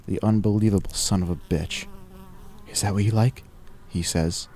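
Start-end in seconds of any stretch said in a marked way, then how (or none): 2.7-3.4 slightly raised, breathless taunt; high-pitched and breathless. A narrator's reading. Bleeding preacher taunting his attacker, high-pitched and breathless. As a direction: taunt with a touch of breathless height. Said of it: "high-pitched and breathless".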